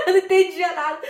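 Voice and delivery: falando em meio à risada, agudo e forte; rindo. Real, not acted. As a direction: solte a frase rindo alto. Ri da própria confusão contada. (às gargalhadas, voz aguda)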